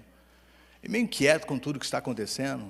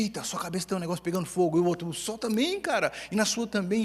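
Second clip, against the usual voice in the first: excited disbelief; 5 semitones higher than usual. Retold or imitated. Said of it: "Imagina eles olhando e falando assim".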